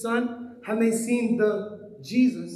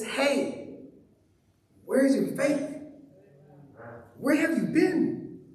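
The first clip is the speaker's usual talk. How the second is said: questioning voice; 3 semitones higher than usual. Pretend. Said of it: "the same question goes to us".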